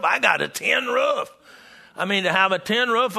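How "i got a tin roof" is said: joyful shout. Retold or imitated. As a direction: shout it out like proud news. Repeated, now shouted with joy.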